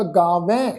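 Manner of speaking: "ਗਾਵੇਂ" ending in a blended, nasal open "ain". Shown as a demonstration. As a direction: run the h into the v in "ਗਾਵੇਂ", as gaa-vain. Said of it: "ਮਿਲਵੀ tone ਵਿੱਚ ਉਚਾਰਨ ਹੋਏਗਾ".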